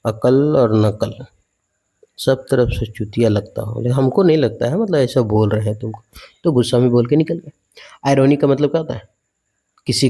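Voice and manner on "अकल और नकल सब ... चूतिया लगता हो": lightly hammed filmi line delivery; a touch of a film hero's taunt; movie dialogue. Teacher quoting a film dialogue to the class, lightly hammed. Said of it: "तो बोले picture वाला dialogue".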